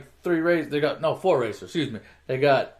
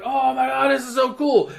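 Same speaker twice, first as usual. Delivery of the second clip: high-pitched imitated gushing; mock awe; 7 semitones higher than usual. Onlookers under the popped hood, high mock awe. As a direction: gush over it, pitched well up.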